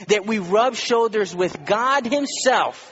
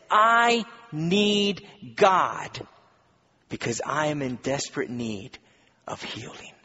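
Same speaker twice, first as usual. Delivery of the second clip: desperate plea; 3 semitones lower than usual. Retold or imitated. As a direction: beg God from real need, then let it fall away to a breath. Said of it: "the approach that says".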